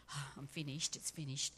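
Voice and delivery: soft, defeated sigh of the words; whisper of defeat. Retold or imitated. Jesus as he did not say it, a soft whisper of defeat. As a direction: say it like giving up, barely there. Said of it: "it wasn't a whisper of defeat".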